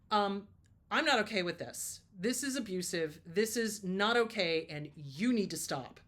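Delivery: firm, loud reprimand; loud confrontation. Retold or imitated. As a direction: speak up firmly and loudly. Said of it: "I finally stood up and loudly said".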